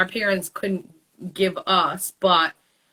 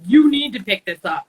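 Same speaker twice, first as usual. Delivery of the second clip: louder mom putting her foot down; firm order; 5 dB louder than usual. Retold or imitated. Mom telling her kids to tidy, firm order. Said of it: "Instead of being like".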